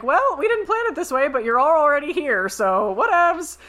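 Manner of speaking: breezy mock queen. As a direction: toss it off like it's nothing. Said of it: "she's like".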